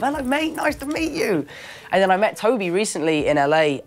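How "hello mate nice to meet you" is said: high, cheery English mate voice; very English greeting. Retold or imitated. Actor imitating Andrew's family meeting his mum, very English. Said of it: "very English sort of".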